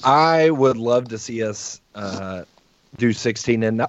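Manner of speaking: interrupted by hiccups, talking through them; hiccupping mid-sentence. Real, not acted. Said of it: "I have the hiccups".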